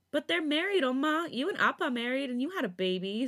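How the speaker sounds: put-on high, insistent little-girl whine; whining child. A narrator's reading. Daughter protesting to her mother, high whine. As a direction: plead it like a kid who feels wronged. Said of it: "Sujin whines".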